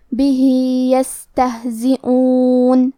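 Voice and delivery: بِهِ with the ہ vowel stretched to two counts; madd sila sughra. Shown as a demonstration. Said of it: "اپنی آواز دو مد کے برابر لمبی کریں گے". (بِهِ میں آواز دو مد کے برابر لمبی)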